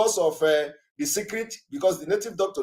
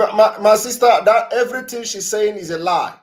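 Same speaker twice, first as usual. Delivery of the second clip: loud, raised-pitch objection; urgent, louder and higher rebuttal; emphatic interruption; 5 semitones higher, 8 dB louder than usual. Real, not acted. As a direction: cut in forcefully to set the caller straight. Host cuts in to refute caller.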